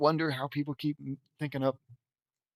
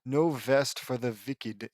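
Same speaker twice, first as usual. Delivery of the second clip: put-on light, slow Transylvanian accent; 3 semitones lower than usual. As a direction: say W's as V's, lightly Transylvanian. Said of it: "Transylvanian accent".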